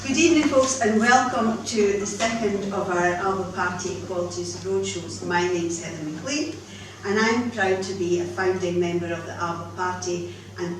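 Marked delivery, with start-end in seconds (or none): 0.1-5.3 teacher voice. Shown as a demonstration. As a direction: call the room to order like a teacher. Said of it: "I'll use my teacher voice".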